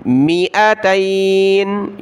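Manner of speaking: मिअतैन ending on a stopped noon, slow; pausal form. Shown as a demonstration. Teacher shows the pause form at a stop. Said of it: "वक़फ़ करेंगे तो".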